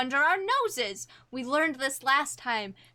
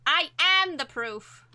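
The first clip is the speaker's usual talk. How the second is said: dramatic reveal; 4 semitones higher, 4 dB louder than usual. Acted. Heroine reveals herself dramatically.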